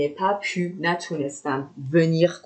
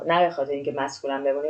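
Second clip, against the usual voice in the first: ordinary talk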